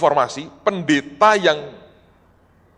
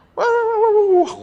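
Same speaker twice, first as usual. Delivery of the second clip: high-pitched "wah" howl imitating a rage; mimicked raging; 4 dB louder than usual. Preacher mimics the visiting pastor going berserk, mock raging. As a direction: wail a string of high wahs, mimicking a tantrum.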